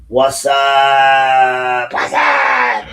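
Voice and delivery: loud drawn-out what's up; shouted greeting. Real, not acted. Speaker hollering a slow greeting to the crowd at the meeting. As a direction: call it across the room slowly and loud. Calling out to the room.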